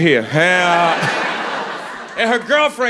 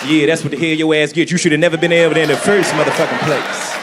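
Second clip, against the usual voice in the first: mock black woman voice; 4 semitones lower, faster than usual. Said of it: "my black woman voice".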